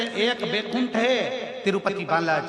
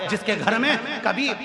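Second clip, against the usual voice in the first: building to a loud outraged cry; indignant preaching; 7 dB louder than usual. Acted. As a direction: rail against the man in the chair, louder each line.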